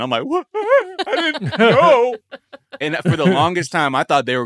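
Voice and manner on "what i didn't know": high, slow, laughing "what, I didn't know"; laughing disbelief. Retold or imitated. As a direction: squeal it out through laughter in mock shock. Retold shock at eight grand tax bill.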